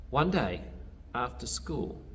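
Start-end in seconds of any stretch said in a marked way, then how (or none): none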